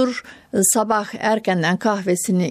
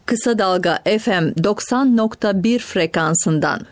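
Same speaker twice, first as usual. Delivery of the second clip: put-on old radio announcer. Formal broadcast frequency announcement.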